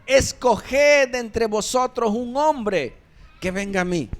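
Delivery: giant's challenge. Acted. Goliath challenging Israel's ranks, loud taunting shout. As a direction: taunt the army like a boastful giant. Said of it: "a los escuadrones de Israel diciéndoles".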